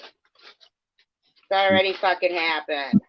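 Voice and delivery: each word dragged out slowly; slow emphatic repeat. Real, not acted. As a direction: spell it out, exasperated. Exasperated repeat, slowed.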